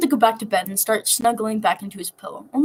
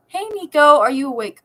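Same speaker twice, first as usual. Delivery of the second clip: loud and much higher, cheerful call; 6 semitones higher, 8 dB louder than usual. Acted. Jason calling loudly into the cabin for Nico. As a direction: call in loudly through the door.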